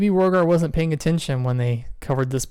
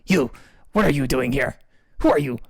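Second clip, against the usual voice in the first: angry. Acted. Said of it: "He looks at you very angrily and he says".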